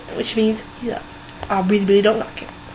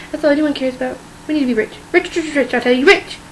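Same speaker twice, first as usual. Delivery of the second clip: sneering panto villain; 2 semitones higher than usual. Acted. Greedy Mrs Bennet scheming for money.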